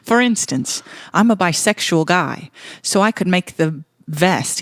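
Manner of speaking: put-on loosely held Irish accent; letter read in a wobbly Irish accent; lightly attempted Irish accent. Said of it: "I'm losing my Irish accent here".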